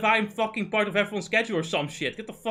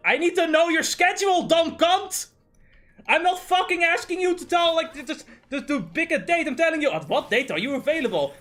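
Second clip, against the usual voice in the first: much higher, louder enraged yelling; furious outburst; 10 semitones higher, 4 dB louder than usual. Retold or imitated. Demanding schedules from friends, much higher furious yell. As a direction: explode at them for the schedule. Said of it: "It's like".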